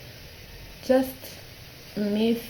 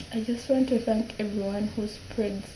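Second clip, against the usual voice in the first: tearful. Real, not acted. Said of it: "I'm crying".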